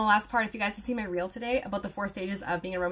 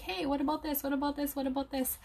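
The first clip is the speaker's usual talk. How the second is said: higher-pitched mock pestering voice; pestering questioner; 7 semitones higher than usual. Followers badger a student for advice, mock pestering. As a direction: imitate someone badgering with quick repeated questions.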